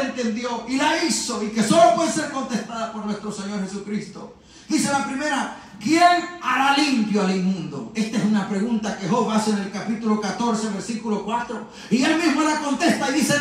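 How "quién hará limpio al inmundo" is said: slow, full-voiced scripture question; proclaimed question. Preacher reading Job's question to the congregation, proclaimed question. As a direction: put the question out to everyone, deliberately. Reads question, repeats it softly later.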